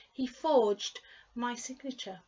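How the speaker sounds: forged with a clear D in the past tense. Shown as a demonstration. A teacher pointing out the D at the end of forged. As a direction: sound the D of forged. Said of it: "did you hear the D bit there".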